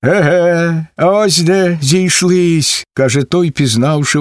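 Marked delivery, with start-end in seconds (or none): 0.0-2.8 high, slow drawn-out aha; surprised recognition. Acted. Ataman meets Vasyl again, pleasantly surprised. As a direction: savour the surprise.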